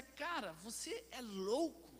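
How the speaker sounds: acted-out astonishment, stretched slowly; incredulous sailors' reaction. Sailors reacting to Jonah's disobedience, incredulous. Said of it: "A reação deles é".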